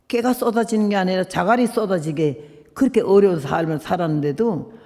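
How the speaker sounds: usual speaking voice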